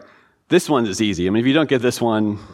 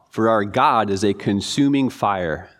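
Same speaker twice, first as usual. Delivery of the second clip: slow, solemn reading of the verse; slow scripture reading; 2 semitones lower, slower than usual. Acted. Pastor reading Hebrews to the class, slow and solemn. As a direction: let the words land one by one.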